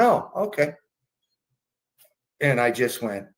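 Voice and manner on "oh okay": put-on high sing-song old lady; giddy mom.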